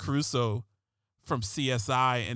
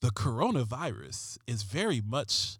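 drawn-out brooding TV cop line; David Caruso voice. Retold or imitated. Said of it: "I'm gonna use a David Caruso voice".

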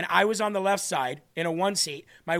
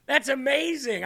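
higher-pitched, retold delight; retold amazement; 6 semitones higher than usual. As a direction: act out being pleasantly amazed. Retelling his delighted reply to nephew.

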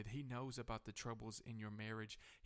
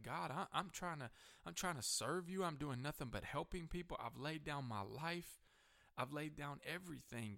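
higher-pitched pleading, acting out a prayer; retold pleading; 5 semitones higher than usual. Preacher retells protesting to God under attack, pleading. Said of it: "I began to plead my case".

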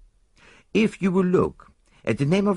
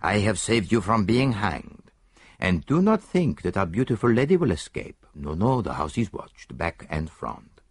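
mild reproof; 4 semitones higher than usual. Acted. Poirot lecturing the disarmed Italian, mild reproof. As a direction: chide him like a naughty child. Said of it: "a tone of mild reproof".

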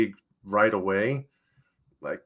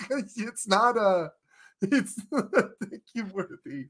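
high-pitched, helpless giggle while talking; real laughing through words; 9 semitones higher, slower than usual. Real, not acted. Co-host arguing the post wasn't deserved, laughing through words. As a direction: crack up mid-sentence, voice climbing high.

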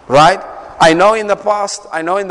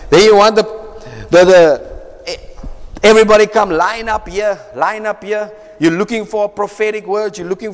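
mock preacher calling out; faster than usual. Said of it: "I'm talking like this".

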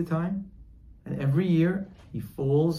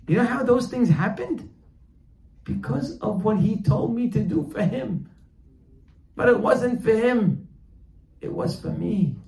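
high-pitched, emphatic climax; impassioned realization; 7 semitones higher, 4 dB louder than usual. Acted. Grown person realizing it was for their own good, impassioned. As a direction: cry it out as a revelation.

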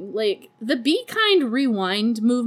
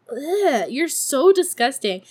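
higher mock disgust; horrified; 4 semitones higher, 3 dB louder than usual. Host reacts to woman and dog, mock horrified. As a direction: recoil in exaggerated revulsion. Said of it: "I'm horrified".

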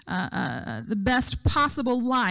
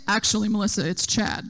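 lightly imitated man, dropping lower; deep masculine voice; 4 semitones lower than usual. Financial advisor answering instead of mom, imitated deep masculine voice. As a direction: put on a hint of a deep man's voice. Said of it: "this deep masculine voice".

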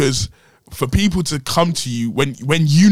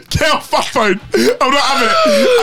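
high, loud outraged yell; mock outraged yell; 4 dB louder than usual. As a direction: yell it like a wounded friend. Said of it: "He said".

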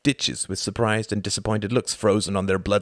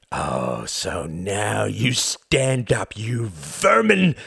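snarled; much slower than usual. Acted. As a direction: drag it out with contempt. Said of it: "snarled Count Orski".

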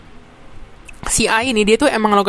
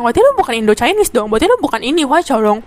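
retold confrontational accusation with jumps in pitch; imitating pushy challenge; 2 semitones higher than usual. Interviewer challenges the candidate's identity, mock pushy. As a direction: push back like an argumentative interviewer. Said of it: "Terus dia langsung kayak ngegas".

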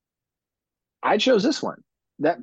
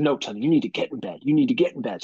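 forceful, not yelling; 2 semitones higher, faster than usual. Retold or imitated. Dad sending his daughter to bed, retold as forceful. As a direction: voice up a little, firm parent. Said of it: "not yelling ... voices up a little bit".

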